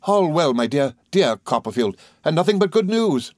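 high, gleeful answer; reply overjoyed to an old friend; delighted, pitched well up; pleased cry. A narrator's reading. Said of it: "we cried with pleasure, both of us".

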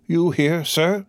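high, sharp surprise at seeing him; startled exclaim. A narrator's reading. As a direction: jolt up high in shock. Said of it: "he exclaimed".

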